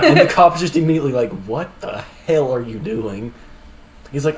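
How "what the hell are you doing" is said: slow, drawn-out incredulous cop; mock disbelief. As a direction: stretch out a stunned cop's question. Cop's disbelief in retold skit.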